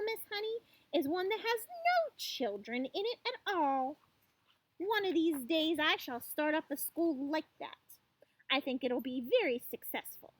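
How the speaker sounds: lightly acted tyrant, pitch swooping up in places; scornful headmistress. Trunchbull tells Miss Honey of her perfect school, mildly haughty. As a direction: relish the idea with mild haughty scorn.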